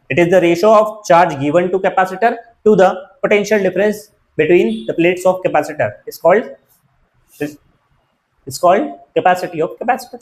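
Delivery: slow, deliberate recital of a definition; measured classroom dictation, pausing between phrases; dictating. Real, not acted. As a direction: recite it slowly for note-takers. Teacher dictates the definition again.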